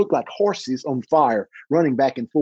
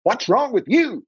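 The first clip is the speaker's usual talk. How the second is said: higher, slow puzzled question; a crippled brother asking, concerned; worried brother; 10 semitones higher, slower than usual. Retold or imitated. Brother at the bedside asking the frightened boy, higher and slow. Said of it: "here's what he said".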